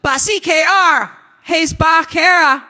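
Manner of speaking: high, loud cry for help; panicked shout. Acted.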